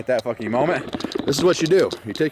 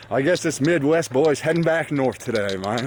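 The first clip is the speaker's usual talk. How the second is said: lightly put-on North Carolina drawl; casual Southern twang, North Carolina style. Shown as a demonstration. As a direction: slip into a bit of North Carolina accent. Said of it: "that's fucking North Carolina voice".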